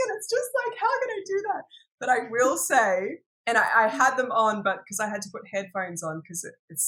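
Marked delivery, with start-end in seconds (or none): 0.1-1.6 mock exasperation. Continues mock dilemma.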